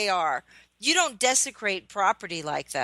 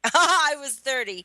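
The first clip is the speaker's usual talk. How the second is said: laughs, then says it higher; laughing; 5 semitones higher than usual. Real, not acted. Guest laughs at being the old one at thirty.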